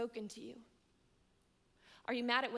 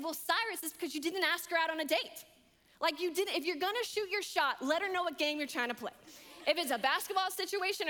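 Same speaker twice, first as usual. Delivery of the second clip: emphatic scolding advice; 4 semitones higher, 4 dB louder than usual. Retold or imitated. She lectures her friend emphatically.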